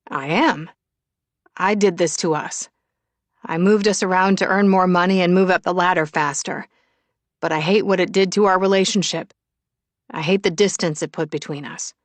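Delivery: a touch of earnest self-blame; lightly voiced regretful Shane. Shane regrets the distance between them, mildly remorseful. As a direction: own up firmly in a lightly voiced man's part.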